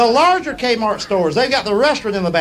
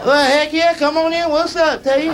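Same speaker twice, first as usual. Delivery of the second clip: sly neighbour; 8 semitones higher than usual. Pretend. To house hunters, a sly, pushy neighbour inviting them in. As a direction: slip prospective buyers in while the owners are away.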